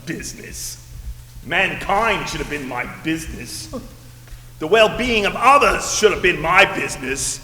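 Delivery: raspy ghost voice. Acted. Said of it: "this raspy voice".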